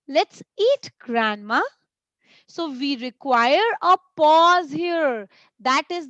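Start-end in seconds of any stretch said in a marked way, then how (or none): 0.1-1.6 strong feeling. Shown as a demonstration. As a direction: exclaim it with feeling, pausing after eat. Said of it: "I'm expressing a strong feeling".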